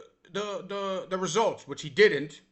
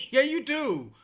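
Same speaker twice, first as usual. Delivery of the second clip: laughing; 3 dB louder, slower than usual. Real, not acted. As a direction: repeat it with a laugh. Repeats it laughing.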